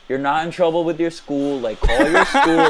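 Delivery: mock advisor. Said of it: "took on the role".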